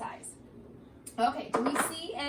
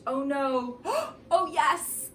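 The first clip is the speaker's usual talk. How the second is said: mock fright; 2 semitones higher, 5 dB louder, slower than usual. Gasping at ghost in story.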